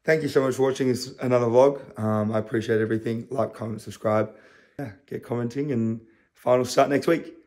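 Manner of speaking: muffled by retainers; talking with retainers in. Real, not acted. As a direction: speak with retainers in your mouth. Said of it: "I sound like an idiot with these in".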